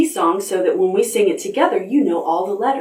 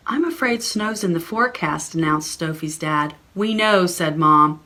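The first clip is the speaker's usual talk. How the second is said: put-on story reading for children. Reading a picture book aloud.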